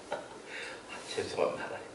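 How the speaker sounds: sorry, Lord, said meekly; a pastor confessing to God, hushed; humble confession. Retold or imitated. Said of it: "고백했어요".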